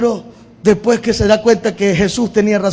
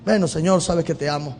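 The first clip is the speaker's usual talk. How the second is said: hushed dialogue; 5 semitones lower, 7 dB quieter than usual. Pretend. Quiet dialogue over soft music.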